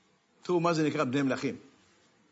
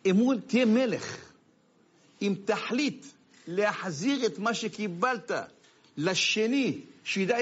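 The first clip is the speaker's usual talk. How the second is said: preaching proclamation; 5 semitones higher, slower than usual. Acted. Preacher's climax.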